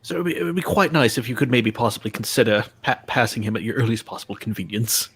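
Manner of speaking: overly polite mock-British request; fake British accent. Engineer asks driver to pass, in mock British accent. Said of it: "with the worst fake British accent".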